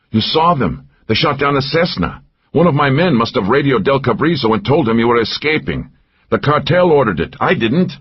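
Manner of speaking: panting. A narrator's reading. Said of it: "He was panting now".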